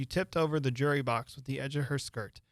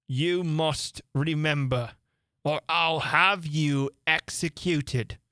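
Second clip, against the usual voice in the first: stern King; 3 semitones higher, much slower than usual. Acted. King threatening the Hatter.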